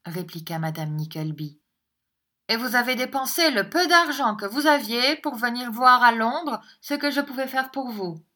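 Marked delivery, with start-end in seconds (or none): 2.5-8.2 higher, louder, plaintive woman's voice; lamenting mother, voiced. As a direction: play the mother recounting her trouble to a brother-in-law. (voix de mère plaintive, plus aiguë)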